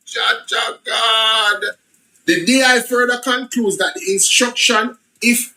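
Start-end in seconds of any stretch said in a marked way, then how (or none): 0.1-1.6 drawn-out disbelief. Real, not acted. Slow disbelieving exclamation.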